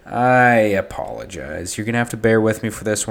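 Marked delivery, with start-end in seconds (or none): 0.0-1.8 talking through a cold, a little wheezy; sick and congested, slow words. Real, not acted. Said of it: "I'm a little bit sick".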